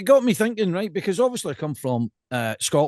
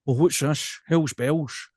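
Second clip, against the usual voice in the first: Ali McCoist; 4 semitones lower, slower than usual. Retold or imitated. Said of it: "I mean, Ali McCoist".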